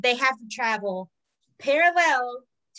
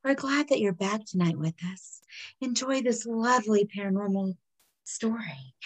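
smooth radio DJ. Acted. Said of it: "Smooth jazz".

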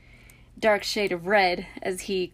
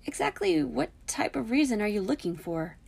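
higher, mildly sympathetic question; 5 semitones higher than usual. A narrator's reading. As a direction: ask with a touch of sympathy. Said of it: "Hermione said sympathetically".

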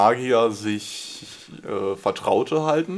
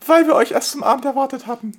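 slushy lisp; 8 dB louder, faster than usual. Acted. Dragon answers the knock question.

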